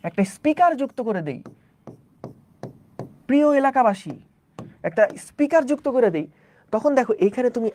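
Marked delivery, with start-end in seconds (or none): 3.3-4.1 a hint of a street loudspeaker announcer; mock announcement. Teacher jokes to students after adding a speaker, mock announcer call. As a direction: playfully hail the neighbourhood like a PA.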